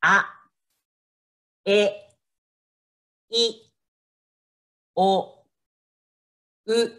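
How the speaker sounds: each vowel alone, long pause after each; slow Japanese vowels. Shown as a demonstration. Teacher slowly models vowels for beginners to repeat. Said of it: "So can you first say".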